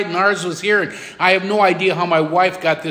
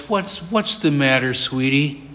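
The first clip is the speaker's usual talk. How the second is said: lower, softened concern; gentle parent; 4 semitones lower than usual. Retold or imitated. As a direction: comfort a child at the bedside. Father comforting his crying daughter.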